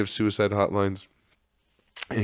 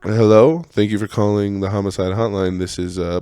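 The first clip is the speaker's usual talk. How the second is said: phone operator; 5 dB louder than usual. Pretend. Voicing hotline operator answering call.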